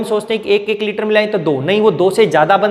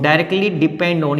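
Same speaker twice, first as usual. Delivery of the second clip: very slow and spaced, a little lower; slow dictation; 4 semitones lower, much slower than usual. Shown as a demonstration. Teacher dictating the alternative phrase to students, slowly. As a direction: give the phrase slowly for the notebook.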